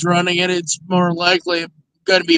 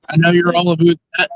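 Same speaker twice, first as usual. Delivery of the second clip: put-on teasing Canadian accent, about said aboot; mock Canadian accent; faster than usual. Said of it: "making fun of my Canadian accent".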